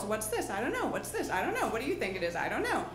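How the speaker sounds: lightly voiced puzzled kids, sing-song back and forth; hint of two children trading questions; two little girls chatting. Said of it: "this conversation between the two girls".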